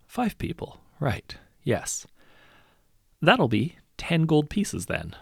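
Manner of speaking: muttering the tally, then slow and pleased; smug hero voice. A narrator's reading. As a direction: count it under the breath, then announce the price. Hero muttering while counting.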